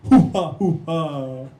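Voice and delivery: low, loud, drawn-out macho grunts; slow, deep cartoon flourish; Indian Johnny Bravo. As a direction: punch out cartoon he-man grunts. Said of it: "That's Indian Johnny Bravo".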